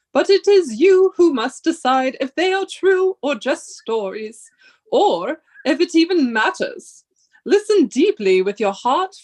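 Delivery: measured, solemn lecturing read; professor voice. Acted. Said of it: "do you like my professor, um, voice?".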